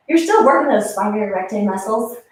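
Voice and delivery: a slip into a rural hick accent. Real, not acted. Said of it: "I think I just used my hick accent on that".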